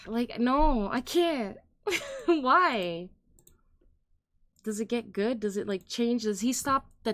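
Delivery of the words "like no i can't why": loud laughing disbelief; high, louder laughing why; laughing protest. Real, not acted. Laughing refusal of song.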